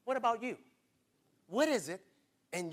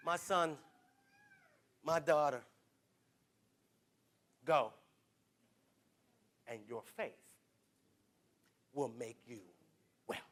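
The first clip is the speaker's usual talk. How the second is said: hushed gentle voice of Jesus; 8 semitones lower, 8 dB quieter than usual. Retold or imitated. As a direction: speak it like a quiet blessing. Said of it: "he's gonna say to you".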